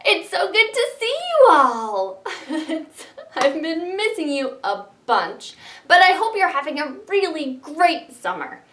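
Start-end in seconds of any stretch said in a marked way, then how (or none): none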